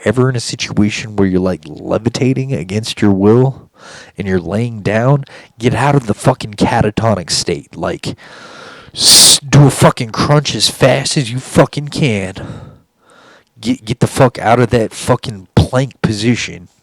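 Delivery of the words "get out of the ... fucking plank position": loud, urgent orders; urgent commands. Real, not acted. Telling viewers what to do if abducted, loud urgent commands. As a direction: bark the steps like a drill instructor.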